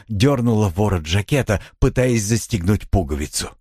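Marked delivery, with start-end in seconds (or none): none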